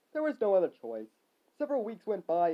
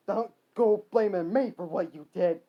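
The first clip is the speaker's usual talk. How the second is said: slow, loud retort; yell; 6 dB louder than usual. Acted. Frank refusing Billy's blame, slow yell. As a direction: yell it deliberately. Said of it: "Frank yelled at Billy".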